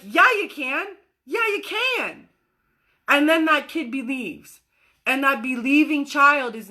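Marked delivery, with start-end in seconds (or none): 1.2-2.3 higher, slow, fond reassurance; encouraging. Acted. Adult encouraging the kid who says he can fly. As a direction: cheer the kid on gently. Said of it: "we're like".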